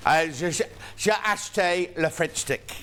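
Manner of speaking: a hint of a put-on French accent, ordering bread; mock French tourist. Presenter imagines herself in Paris, mock French accent. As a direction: play a Parisian buying a French stick, lightly. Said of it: "Do you imagine Paris?".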